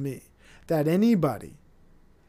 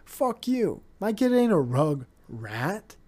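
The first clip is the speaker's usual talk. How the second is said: mock outrage. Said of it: "I'm like".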